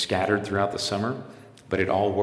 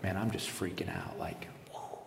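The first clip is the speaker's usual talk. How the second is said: whispered panic; 6 dB quieter than usual. Retold or imitated. Panic recalled, whispered aside.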